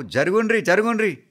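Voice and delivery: high, loud repeated order; urgent crowd-clearing yell; calling to move. A narrator's reading. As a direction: shout to clear the way.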